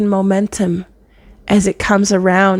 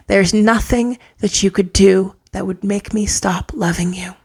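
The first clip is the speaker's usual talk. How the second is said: tender whisper. Retold or imitated. Mother speaking to child.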